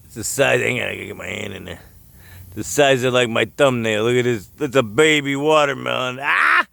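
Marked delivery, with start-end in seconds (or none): 6.2-6.7 surprised ah. Real, not acted. Spots a baby watermelon.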